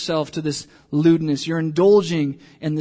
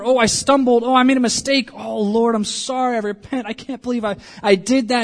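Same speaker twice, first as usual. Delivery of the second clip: repentant believer; 4 semitones higher, 3 dB louder than usual. Retold or imitated.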